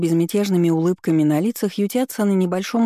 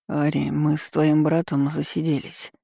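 put-on slurred drunk. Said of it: "Заплетающимся языком бормочет Марк".

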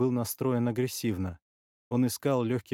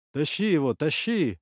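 raised, hurried command; urgent shouting; 4 semitones higher, 5 dB louder than usual. Acted. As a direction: call out to men hauling a body. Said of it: "кричали незнакомые мне голоса".

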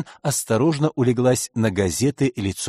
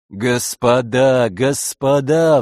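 медленно и громче, с мольбой; взмолись, растягивая слова; умоляюще; 4 dB louder, much slower than usual. Acted. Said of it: "взмолился следователь". (следователь умоляет спорящих, медленно и громче)

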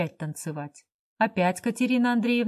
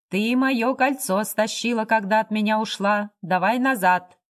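rough, louder demand; rough shout; 2 semitones higher, 4 dB louder than usual. Acted. Drunk Lyakhov rudely demanding his ring back, a rough shout. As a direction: shove the words at her, rough and loud. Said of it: "грубо крикнул Ляхов".

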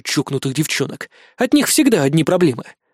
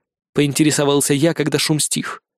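usual speaking voice

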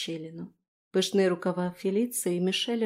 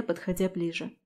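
ordinary delivery, nothing marked

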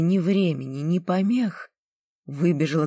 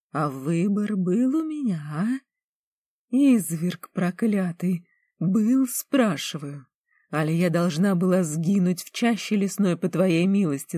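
furious; 4 semitones higher than usual. Acted. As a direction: hurl the reproach at him. Furious girl quarrels with Lan.

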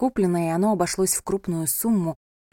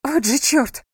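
a sharp, higher curse under her breath; mild cursing; 6 semitones higher, 4 dB louder, slower than usual. A narrator's reading. Stuck heel, bride curses in annoyance. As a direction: swear as the heel sticks. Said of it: "выругалась она".

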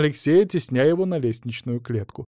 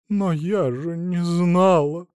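slow, tearful protest; slow voice on the edge of tears; 5 semitones higher, slower than usual. Acted. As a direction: break down as you say it. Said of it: "и разрыдалась".

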